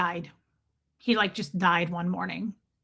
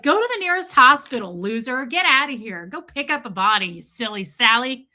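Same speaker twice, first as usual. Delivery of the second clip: louder, brushing-off taunt; mock dismissive shooing; 5 dB louder than usual. Telling a haunting ghost off, mock taunting. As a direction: shoo the ghost away with contempt. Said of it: "You're supposed to just be like".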